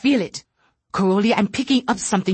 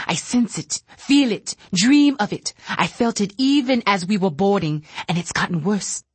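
agitated fear; 3 semitones higher than usual. Acted. Telepath pleading with Caroli, pitched up in fear. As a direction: plead it in rising panic.

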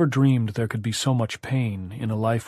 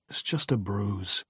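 sulky; 5 dB quieter, slower than usual. A narrator's reading. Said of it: "He sounded sulky".

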